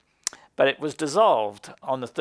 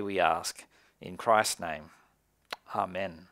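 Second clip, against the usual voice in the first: earnest, hushed pastoral prayer voice; 2 semitones lower than usual. Acted. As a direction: pray it reverently, softening toward amen. Pastor leads opening prayer.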